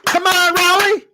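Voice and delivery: mocking high-pitched fighter's taunt; Claressa Shields. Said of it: "Bobbing her head and shit and doing this".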